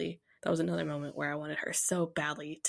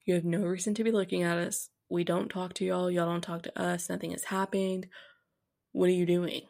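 pissed off. Retold or imitated. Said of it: "I'm, like, pissed off".

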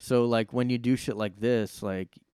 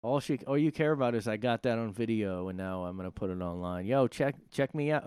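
put-on brash girl voice. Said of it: "this girl's like".

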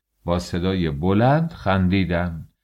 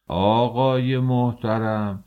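outraged shout; 4 semitones higher than usual. Acted. Father shouts at the census official in disbelief, outraged. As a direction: protest in disbelief at the top of your voice. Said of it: "فریاد کشید".

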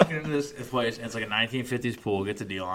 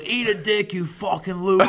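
higher and louder mock-furious yell at the phone; retold angry outburst; 9 semitones higher, 5 dB louder than usual. Retelling the vet yelling at the phone clerk, mock-furious. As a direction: bark the insult like the angry old vet. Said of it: "He goes".

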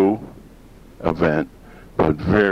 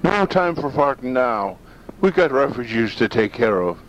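hammed-up Irish brogue of a silly leprechaun; Leo the leprechaun; 7 semitones higher than usual. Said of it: "This is Leo the farting leprechaun".

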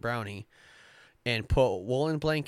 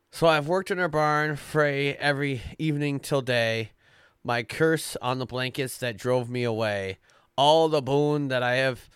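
put-on Scottish accent; 4 dB louder than usual. The brownie curses the blankets and leaves the farm, in a Scottish accent. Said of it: "to get my Scottish out of me".

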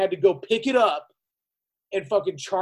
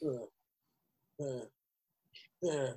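a dazed, stammering uh uh; mimicking a clueless tour manager; 5 semitones lower, 12 dB quieter, much slower than usual. Imitating the tongue-tied tour manager he dealt with. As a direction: play the tour manager lost for words. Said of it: "tech metal tour managers that's kinda like".

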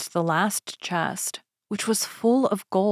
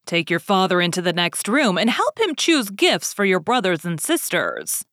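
Beast's question. Acted. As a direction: ask it like a looming beast. Beast instructs Beauty.

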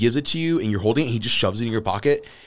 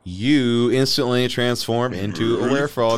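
loud, emphatic announcement; big dramatic narration; dramatic game master reveal; 3 semitones higher, 6 dB louder than usual. Acted. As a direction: announce the transformation with force.

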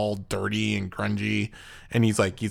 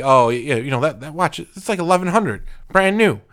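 excited salesman; 4 semitones higher, 3 dB louder than usual. Retold or imitated. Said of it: "he's like".

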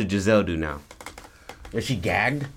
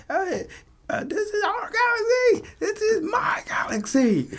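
tearful speech. Retold or imitated.

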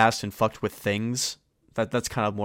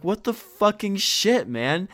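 high, loud, drawn-out disbelief; loud, stretched-out mock outrage; retold exasperation; 10 semitones higher, 4 dB louder, slower than usual. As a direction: act out exasperation, pitched way up. Retold exasperated reaction to friend.

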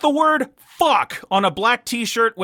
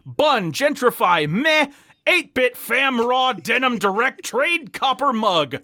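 reading shop description; 3 semitones higher than usual. Retold or imitated. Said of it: "the description is the biggest reason".

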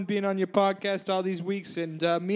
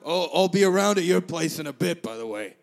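Rupert voice; 4 semitones lower, 3 dB louder than usual. Pretend. The speaker holding Rupert voice.

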